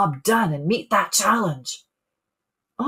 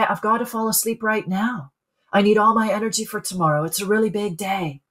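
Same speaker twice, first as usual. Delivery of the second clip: calm tone; faster than usual. Shown as a demonstration. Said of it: "it might have been calm in my tone".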